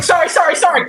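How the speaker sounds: high, loud, sorry through laughter; laughing apology. Retold or imitated. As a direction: apologize while cracking up. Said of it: "I was like".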